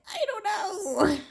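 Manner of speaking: high, giggly I don't know; high helpless reply. Retold or imitated. She answers the alien, high helpless. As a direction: toss it off helplessly.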